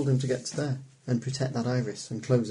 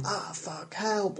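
mild mock cry for help; 8 semitones higher, 5 dB quieter, much slower than usual. Shown as a demonstration. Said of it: "Calls for help as in".

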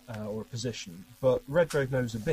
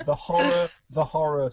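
mock film horror; 4 semitones higher, 8 dB louder than usual. Quoting film line for comedy.

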